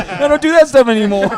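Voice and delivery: Big Daddy voice. Retold or imitated. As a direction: deliver it as a dopey movie kid, giggling through it. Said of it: "Dan's version in, in Big Daddy when he's like".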